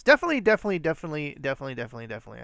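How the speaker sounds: mock compulsive repeating, fading to normal; playful rapid repetition. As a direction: get it out of your system, starting big and tapering off. Purging an overused word.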